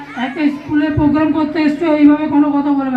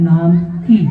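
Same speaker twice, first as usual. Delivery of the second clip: goofy muffled sock puppet; 9 semitones lower than usual. Acted. Puppet mocking the question.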